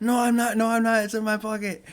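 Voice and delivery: high, loud frantic denial; protesting yell. Retold or imitated. Accused of being on his phone, high shouted protest.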